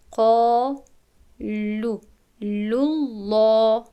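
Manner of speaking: قالوا لله with a thin, light lam, slow recitation; light lam in lillah. Shown as a demonstration. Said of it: "این لام رو ما باید یعنی خالی تلفظ کنیم".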